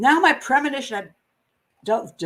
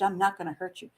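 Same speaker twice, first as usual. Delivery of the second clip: soothing, quieter; 4 semitones lower, 6 dB quieter than usual. Retold or imitated. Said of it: "he soothed".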